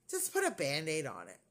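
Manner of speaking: imitating an offhand brush-off after a pfft; low, casual wave-away as the doctor; dismissive doctor. Doctor brushes off nurse's question.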